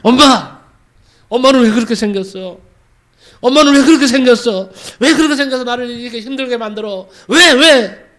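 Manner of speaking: put-on a girl sobbing out her blame; crying shout. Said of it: "울면서 소리를 쳤습니다". (울면서 소리치는 딸)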